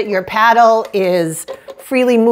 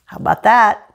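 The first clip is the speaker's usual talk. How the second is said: mouth full; 4 semitones lower, 5 dB quieter, faster than usual. Real, not acted. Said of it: "Let's try a piece of toasted".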